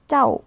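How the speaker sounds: teacher demo of cháu, clipped and falling; modelled cháu. Shown as a demonstration. Teacher sounds out cháu for learners, high and falling. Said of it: "không phải là cháu nữa".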